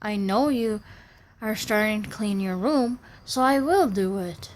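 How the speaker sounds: a hint of a sugary, helpful father; mock sweet dad. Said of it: "Or if he would have said".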